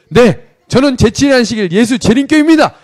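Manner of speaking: high, loud military-style answer; recruit's loud declaration. Retold or imitated. Recruit to regimental commander at interview, blurted loud declaration. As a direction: belt out the reply like a soldier.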